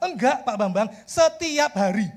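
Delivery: acted exasperated boss, drawing out the words; imitated indignant correction; exasperated insistence. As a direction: insist slowly, pitch climbing, as the fed-up boss. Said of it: "gemes saya".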